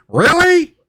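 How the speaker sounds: very high imp squeal, rising; Ixbit. Acted. Imp reacting to the cat's denial, high squeaky voice. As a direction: shoot the pitch right up in disbelief. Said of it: "you hear Ixbit say".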